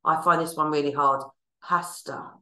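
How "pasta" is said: whispered. Shown as a demonstration. Mouthing the sign word.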